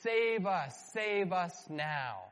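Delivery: pleading cry for rescue; crying out to God. Retold or imitated. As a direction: cry out to be saved. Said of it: "the nation would be crying out".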